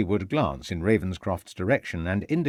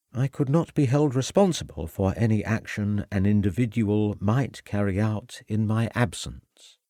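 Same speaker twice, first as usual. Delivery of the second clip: sly hint. Acted.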